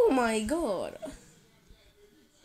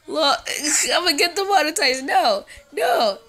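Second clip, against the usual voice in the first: laughing; 4 semitones higher, 6 dB louder than usual. Real, not acted. Panicked laughing at screen.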